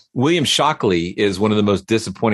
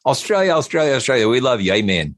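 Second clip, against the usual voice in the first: mock preacher; 4 semitones higher, faster than usual. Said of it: "It's like".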